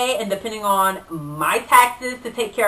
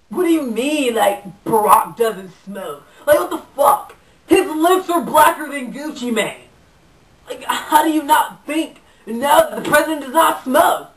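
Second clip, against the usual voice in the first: lightly voiced indignant surfer stoner; a touch of surfer-dude outrage; Chad. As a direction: argue back like an offended stoner bro. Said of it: "Chad is a surfer type dude".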